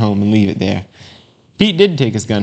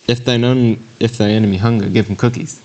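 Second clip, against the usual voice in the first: playful misquote. Acted. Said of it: "I guess we could say in this verse".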